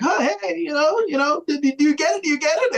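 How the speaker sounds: high, eager mock pestering; Carl pushing the joke. Friend teasing Harriet about the bad joke, high mock pestering. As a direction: needle her to admit she gets it. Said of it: "Carl's like".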